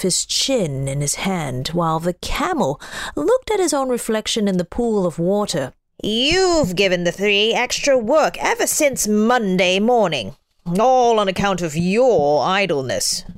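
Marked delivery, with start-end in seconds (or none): 6.0-13.2 djinn voice. Acted. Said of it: "said the djinn".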